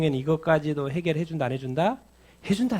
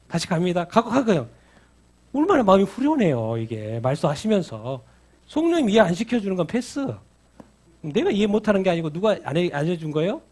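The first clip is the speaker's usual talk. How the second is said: ordinary delivery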